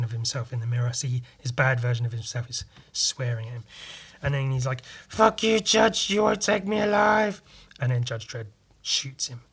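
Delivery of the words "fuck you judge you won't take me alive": high, loud snarling yell; cornered man's high shout; defiant yell. Retold or imitated. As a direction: scream it back at the law. Cornered judge yells defiance.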